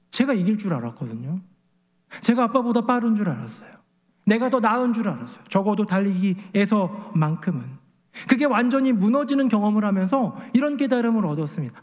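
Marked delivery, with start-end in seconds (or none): none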